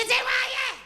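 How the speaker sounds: high, slow sing-song greeting; chirpy hairdresser. Retold or imitated. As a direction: sing the question out like a bubbly stylist.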